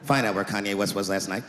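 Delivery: a skeptical cop barely hiding disbelief; low, dry interrogating voice; weary cop. Acted. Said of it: "police veteran taking this kid's police report".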